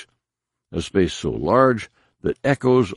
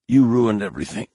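hissed; 3 semitones higher, faster than usual. Acted. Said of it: "he managed to hiss out".

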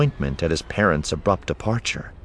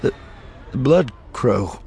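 choked out; 4 semitones higher than usual. A narrator's reading. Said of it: "he choked out".

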